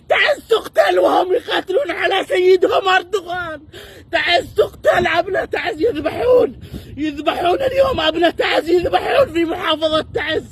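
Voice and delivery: crying through furious accusation; tearful, outraged protest; angry crying. Real, not acted. Protester crying about killings.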